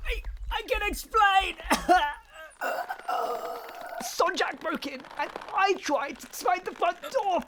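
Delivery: high, loud, nervous excuses; panicked pleading. Acted. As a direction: talk fast to get out of trouble. Caught, pleading with the owner.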